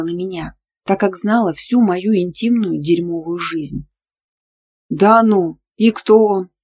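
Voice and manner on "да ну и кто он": louder, astonished question; can't believe her ears; surprised. A narrator's reading. Nastya hears her friend met a man, surprised. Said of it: "удивлённо спросила она".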